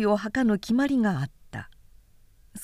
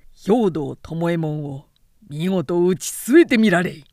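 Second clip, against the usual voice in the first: loud, proud defiance building to a roar; furious shouting challenge; 4 semitones lower, 3 dB louder than usual. Acted. Foot soldier shouting down the samurai who insulted him, furious defiance. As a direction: stand your ground and hurl the challenge. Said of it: "さらに一歩出て叫んだ".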